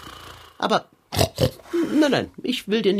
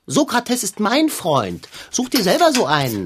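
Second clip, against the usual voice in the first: snippy; 2 semitones higher than usual. Acted. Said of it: "Sei doch nicht so schnippisch".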